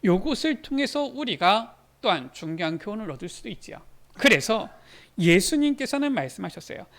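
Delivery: ordinary talk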